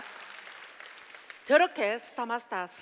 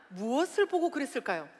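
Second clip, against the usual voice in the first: ordinary talk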